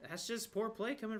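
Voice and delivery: glitchy robotic audio; choppy internet robot voice. Real, not acted. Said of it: "you sound like a robot".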